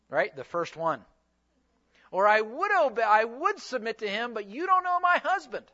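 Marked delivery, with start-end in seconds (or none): 2.1-5.6 mock protest, higher on the objection; pleading self-justification, lightly hammed-up; protesting excuse. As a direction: act out an indignant excuse-maker, voice climbing at the end. Acting out congregants' excuses.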